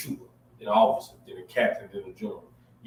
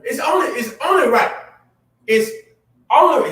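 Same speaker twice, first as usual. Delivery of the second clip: louder, higher, laughing it out; laughing shout; 9 semitones higher, 5 dB louder than usual. Real, not acted. Agreeing with the co-host, laughing and loud.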